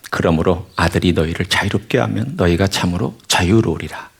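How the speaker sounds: measured, solemn Bible reading; scripture reading. Acted. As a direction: read the verses steadily to the congregation. Reads scripture aloud.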